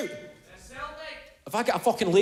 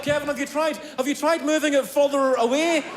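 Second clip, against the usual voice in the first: nagging relative; 6 semitones higher than usual. Retold or imitated. Family members nagging helpfully.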